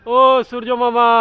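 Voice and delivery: loud mock appeal to the sun; calling out. (জোরে ডাক দেওয়া)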